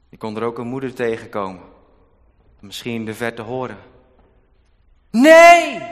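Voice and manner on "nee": piercing, high, very loud cry of "Nee"; mother's scream. Acted. Distant mother screams as her child is thrown in the Nile, piercing. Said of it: "riep ze".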